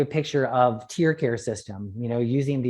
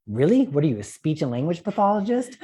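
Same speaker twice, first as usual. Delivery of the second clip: incredulous retort; 4 semitones higher than usual. Retold or imitated. Incredulous retort in retold spat.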